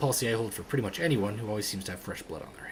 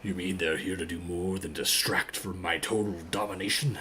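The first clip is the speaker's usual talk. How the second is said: lower, self-important rival voice; domineering game rival; 5 semitones lower than usual. Acted. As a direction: sound sure of your total domination.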